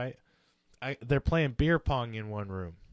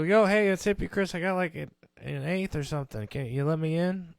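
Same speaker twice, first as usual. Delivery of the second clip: higher, eager hey through the door; cheery greeting; 4 semitones higher, 6 dB louder than usual. Retold or imitated. Hippie Chris greets the locked room cheerfully, higher and louder. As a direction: sell yourself as a friendly guy knocking.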